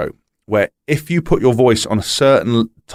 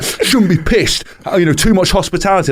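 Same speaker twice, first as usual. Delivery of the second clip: mocking fan; 8 semitones higher than usual. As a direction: jeer at the pundit like a fan online.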